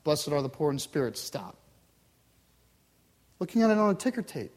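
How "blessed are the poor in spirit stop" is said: low, disconnected teletype reading; teletype readout. Acted. Words reach a far-off listener, teletype readout. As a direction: read it out like a ticker tape, dropping on "Stop". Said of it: "coming through teletype".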